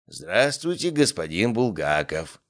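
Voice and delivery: put-on wheezy, slow old man greeting; raspy whisper. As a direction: rasp it out slowly, short of breath. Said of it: "просипел старик".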